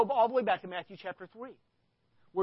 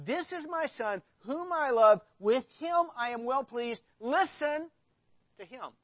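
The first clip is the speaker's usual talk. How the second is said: God's voice; 6 semitones higher, 5 dB louder than usual. Acted. God's voice quoted again.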